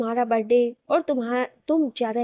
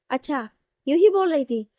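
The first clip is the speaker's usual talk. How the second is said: louder, challenging repeat of an excuse; disbelieving, with a pitch jump mid-phrase; indignant echo; 3 semitones higher, 5 dB louder than usual. Acted. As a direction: throw it back as an accusing question. Throws the excuse back at her.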